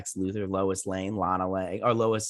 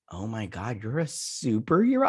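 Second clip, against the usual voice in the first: mock amazement; 2 semitones lower than usual. Husband imagining wife's superhero reveal, mock amazement. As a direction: pretend awe, climbing into the question.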